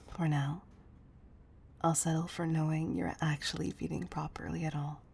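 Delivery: soft, intimate coaxing; quiet, caring murmur to a loved one; tender reassurance. Acted.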